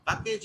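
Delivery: "package" said "pah-kage"; Indian pronunciation. Shown as a demonstration. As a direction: open "ah" in the first syllable of "package". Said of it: "not actually the correct pronunciation".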